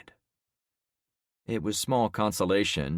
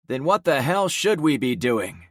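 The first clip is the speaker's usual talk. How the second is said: exasperated; 7 semitones higher, 6 dB louder than usual. Acted. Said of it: "one of the men asked".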